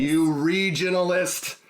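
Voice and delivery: high, drawn-out mock accusation; hammed-up indignant cry; mock indignation. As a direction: scold a friend in play outrage.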